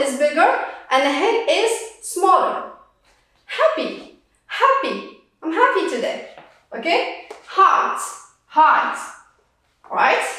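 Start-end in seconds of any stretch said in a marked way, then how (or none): 3.4-5.2 Happy with a clear breathy H; sounded H. Shown as a demonstration. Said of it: "the H is pronounced". 7.5-9.0 Heart with a clear breathy H; sounded H. Shown as a demonstration. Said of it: "the H is pronounced".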